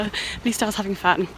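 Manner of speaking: out of breath from rushing home. Real, not acted. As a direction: talk while catching your breath. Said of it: "whew, I'm out of breath".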